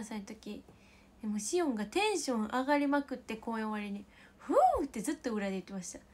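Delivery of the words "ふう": a high, loud whoop of joy; high, loud imitated cheer; excited cheer. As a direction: let out a happy backstage whoop. Retelling Shion's backstage cheer.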